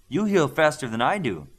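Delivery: can't believe what she's seeing; mild astonished exclaim; disbelief. A narrator's reading. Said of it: "she said in disbelief".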